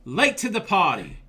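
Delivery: laughing mock Australian G'day; hammed-up Australian accent with a laugh. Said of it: "that cute accent".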